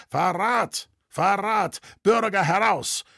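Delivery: shrill shout to rouse the town; piercing cry of alarm. A narrator's reading. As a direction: cry treason out into the night. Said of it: "eine gellende Stimme schrie durch die Nacht".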